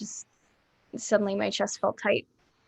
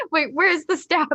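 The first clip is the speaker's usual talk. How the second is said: quoting Lee; 7 semitones higher, 5 dB louder than usual. Retold or imitated. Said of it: "Just like".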